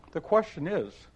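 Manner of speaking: put-on mild girlish pitch; Alice. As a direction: ask it politely as a little girl. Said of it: "said Alice".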